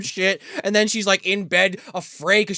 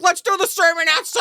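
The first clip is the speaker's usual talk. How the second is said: higher-pitched preacher calling to his flock; mock preacher; 11 semitones higher, 3 dB louder than usual. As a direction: announce it like a hammed-up preacher. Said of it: "he's doing the preacher thing".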